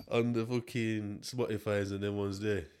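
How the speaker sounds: sniffly, nose running; runny nose. Real, not acted. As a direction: talk through a dripping nose. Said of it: "just hearing bare nasals".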